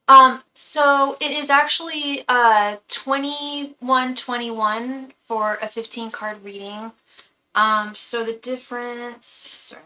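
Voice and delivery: winded from climbing stairs, slow; breathless after running up stairs; out of breath. Real, not acted.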